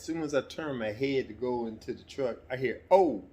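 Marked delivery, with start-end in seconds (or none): 2.9-3.2 sudden high loud "Oh!"; retold yelp. Son retelling his dad's fall, a sudden high yelp. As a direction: yelp the way dad did when falling.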